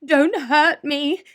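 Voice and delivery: high, slow, scared whimper; whimpering lion. A narrator's reading. Frightened lion begging the mouse not to hurt him. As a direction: plead like a terrified big cat. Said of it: "he whimpered".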